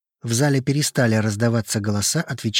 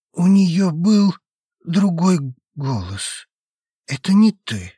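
creepy maniac; 5 semitones higher, 3 dB louder, slower than usual. A narrator's reading. Maniac speaks after spitting.

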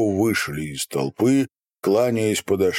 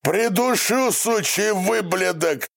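furious yell; 10 semitones higher than usual. A narrator's reading. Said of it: "завопил на него отец".

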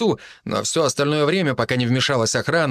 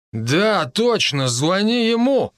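high-pitched, emphatic command; decide suddenly and order it done; rising, insistent instruction; 8 semitones higher, much slower than usual. A narrator's reading. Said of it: "вдруг велел Матвей".

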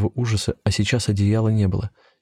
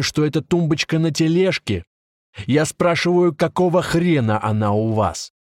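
angry cop; 7 semitones higher than usual. A narrator's reading. Veteran cop berates the arrested friends, furious. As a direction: chew them out like an old cop.

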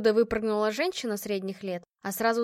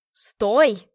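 loud furious yell after her; 8 dB louder than usual. Acted. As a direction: shout him down the corridor. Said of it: "орал мне вслед". (громкий крик вслед)

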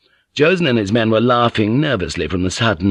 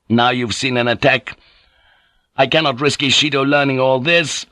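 higher, resolute character voice; unyielding young lord Naga; 4 semitones higher than usual. Acted. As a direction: pronounce a death sentence, unmoved.

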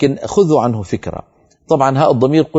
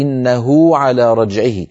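slow recited verse; slow tajweed reading; Quran recitation; slower than usual. Shown as a demonstration. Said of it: "إن وقفنا على قوله تعالى".

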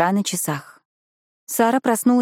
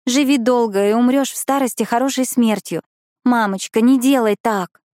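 raised, urgent pleading to her mother; pleading exclamation; 4 semitones higher than usual. Acted. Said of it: "она воскликнула".

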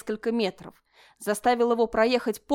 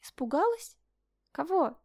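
higher, hammed-up surprise; exaggerated surprise; 8 semitones higher than usual. A narrator's reading. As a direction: overplay the astonishment. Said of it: "Бертон преувеличенно удивился".

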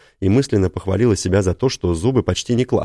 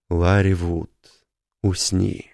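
gentle, calming order to sleep; soothing command; slower than usual. Acted. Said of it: "Приказ был умиротворяющим, ласковым".

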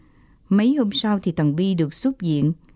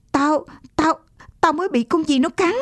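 put-on higher, stammering scared boy; boy just bitten by a snake, stammering; frightened stammer; 8 semitones higher than usual. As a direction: stumble over the words in fright.

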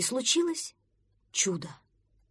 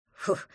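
dismissive snort. Acted. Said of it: "фыркнул Пронырсон".

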